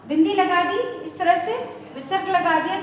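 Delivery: ordinary talk, nothing marked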